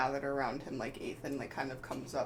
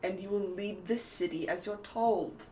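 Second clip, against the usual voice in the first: chastising; 3 semitones higher than usual. Acted. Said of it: "chastises him a bit as though he's a child".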